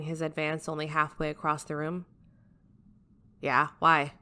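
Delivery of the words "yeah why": blandly. Acted. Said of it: "he asked blandly".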